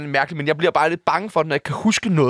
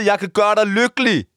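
earnest declaration; 2 semitones higher than usual. Pretend. Declaration to radio host, first take.

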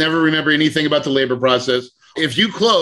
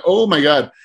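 shocked exclaim. Retold or imitated. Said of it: "And then I'm like".

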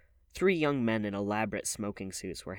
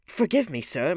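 contrite plea, high and loud rather than muttered; muttered apology; 9 semitones higher, 10 dB louder than usual. A narrator's reading. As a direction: beg pardon with raised voice. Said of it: "muttered James Vane".

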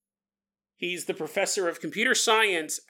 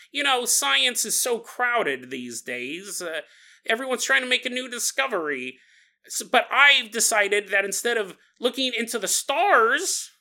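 nerdy professor; 2 semitones higher than usual. Acted. Professor explaining his work to visitors, lightly put-on nerd voice. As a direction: play a slightly ponderous nerd. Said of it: "you can stop doing the nerd voice".

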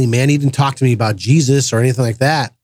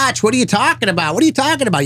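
baffled question; 10 semitones higher, faster than usual. Retold or imitated. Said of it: "And people are like".

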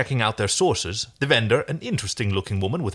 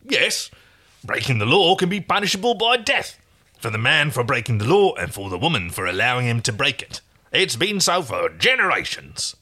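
emphatic stallkeeper; 3 semitones higher than usual. Acted. Stallkeeper warns John of the death penalty, emphatic. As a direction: proclaim the law with relish. Plays stallkeeper stating the law.

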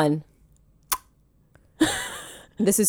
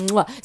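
chef's kiss; 2 semitones lower, 6 dB quieter than usual. Shown as a demonstration. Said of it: "you could also do a regular mwah".

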